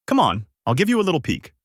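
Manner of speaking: lightly coy, narrated coaxing; seductive. A narrator's reading. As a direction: coax with a touch of flirtation. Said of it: "she said seductively".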